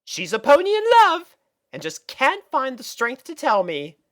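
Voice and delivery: high, lilting posh unicorn lady; lightly voiced fashionable mare; Rarity's voice. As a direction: play the elegant older sister. Narrator voicing characters in fiction.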